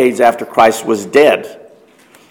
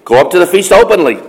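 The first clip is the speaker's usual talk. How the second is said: mildly teasing dare; mocking; 2 semitones higher than usual. Brothers mockingly daring Jesus to go openly, light mock. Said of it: "kind of mockingly say".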